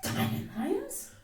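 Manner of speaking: high, rising incredulous echo; indignant schoolgirl question; outburst. A narrator's reading. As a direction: break out in scornful disbelief. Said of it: "broke out Lavinia".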